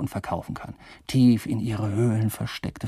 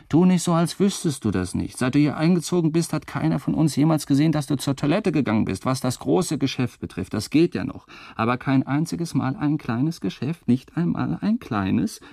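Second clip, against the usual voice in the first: higher, reproachful roommates, somewhat fast; deadly offended; 4 semitones higher than usual. Retold or imitated. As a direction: scold him like deeply insulted roommates. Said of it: "in tödlich beleidigten Ton".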